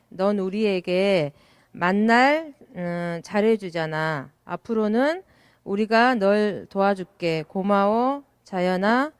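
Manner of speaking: put-on reading a child's poem aloud to the audience; lightly performed poem recital. Shown as a demonstration. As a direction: recite the pupil's poem line by line. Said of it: "시화 한 편을 제가 읽어드릴게요".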